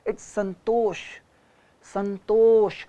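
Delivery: "संतोष" with the full final sh sounded, falling; correct "संतोष". Shown as a demonstration. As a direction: finish "संतोष" clearly on the sh. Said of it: "what is संतोष?". ("संतोष" पूरा, आख़िरी ष साफ़)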